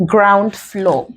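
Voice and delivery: FLOOR stressed in ground floor, with a fall; stress on second word. Shown as a demonstration. Teacher showing the compound exception, FLOOR stressed in ground floor. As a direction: land the weight on FLOOR. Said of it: "the first syllable describes the second".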